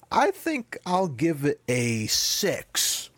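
slow, drawn-out Trump-style voice; Trump impression. Podcast host rating a Bond film, mock Trump voice. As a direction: lightly do Trump giving a score. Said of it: "You sounded very Trumpy".

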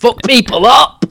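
high, drawn-out gleeful cheer; exultant, slowed-down exclamation; triumphant boast. Real, not acted. Boasting about an unbeaten tank match.

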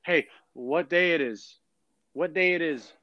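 put-on Irish accent. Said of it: "average Irishman".

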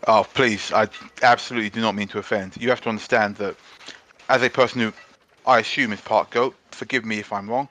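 lightly voiced constable, careful and polite; a hint of a courteous sergeant, apologising; polite English policeman. The speaker in character.

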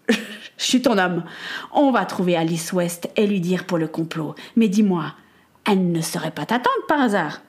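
earnest, understated seriousness; very serious. Acted. Peter offers Samuel his help, very serious. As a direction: pledge help with mild solemnity. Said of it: "dit avec le plus grand sérieux possible".

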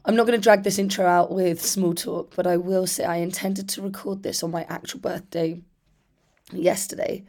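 lost voice, rough and rusty; hoarse voice. Real, not acted. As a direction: talk through a worn-out hoarse throat. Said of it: "as you can hear, I lost my voice".

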